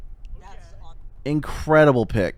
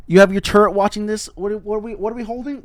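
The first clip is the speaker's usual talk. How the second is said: exasperated; 10 semitones higher, 6 dB louder than usual. Real, not acted. Exasperated rant at KJ's play.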